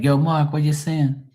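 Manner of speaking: Bermudian accent. Shown as a demonstration. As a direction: call to a friend in Bermudian. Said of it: "They'll be like".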